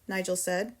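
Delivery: plain reading voice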